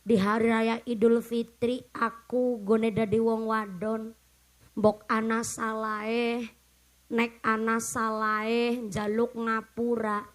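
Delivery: a hint of a dutiful wife reciting to her husband; lightly imitated wife asking her husband's pardon; wife's Eid apology. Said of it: "Minta maafnya ngomongnya begini".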